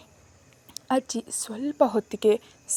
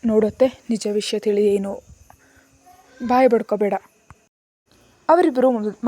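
louder, heated rebuke; angry confronting; 5 dB louder than usual. Acted. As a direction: put the aunt in her place, raised voice. Nephew angrily confronts aunt. (ಅತ್ತೆಯನ್ನು ಗದರುವ ಸಿಟ್ಟಿನ ಏರಿದ ದನಿ)

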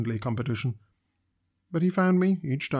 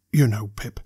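grave, hushed earnestness; solemn; 3 semitones lower, 6 dB louder than usual. A narrator's reading. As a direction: say it like a solemn secret. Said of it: "said Joe solemnly".

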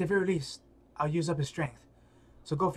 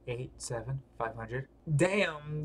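ordinary delivery

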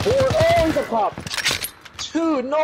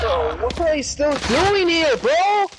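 hyped gamer bro; 5 semitones higher than usual. Real, not acted. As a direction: yell at them to get out. Yelling at teammates to leave.

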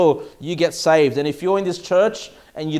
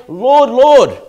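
mock pleading cry; 5 semitones higher, 9 dB louder than usual. Foolish virgins' cry quoted.

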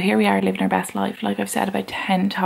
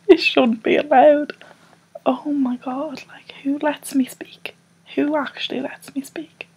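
mock outrage; 6 semitones higher than usual. Mock outrage about herself.

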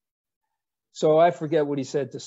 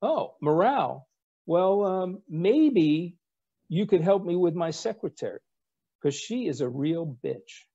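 lightly higher sly admiral voice; a hint of Rickover; 4 semitones higher than usual. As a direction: hand him the task with mock sweetness. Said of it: "And Admiral Rickover says".

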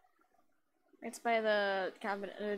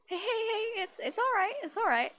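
put-on character voice, accent dropped; 10 semitones higher, 5 dB louder than usual. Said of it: "I lost my accent".

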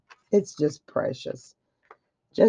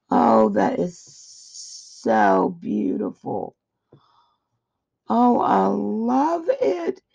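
awed, touched; slower than usual. Real, not acted. Awed at gift.

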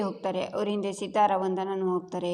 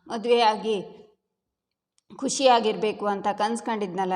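louder, bitter and reproachful; angry outburst; 3 dB louder than usual. Acted. Daughter Ritu angrily blames Bhargavi to her mother, louder. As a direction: lash out at her mother through her hurt.

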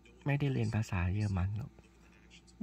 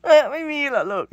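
high, loud playful "huh?"; mock surprise; 14 dB louder than usual. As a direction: act shocked, much higher and louder. Teasing surprise at the cat.

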